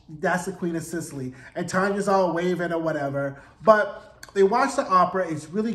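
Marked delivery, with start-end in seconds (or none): 0.1-1.3 sassy confirmation. Retold or imitated. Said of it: "the gays were like".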